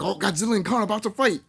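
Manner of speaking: acted excitement before a letdown; mock anticipation. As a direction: play up the coming showdown. Acts out hype before abrupt ending.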